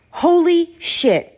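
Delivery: high, slow holy shit; stunned disbelief; shocked. Real, not acted. Reliving his outburst.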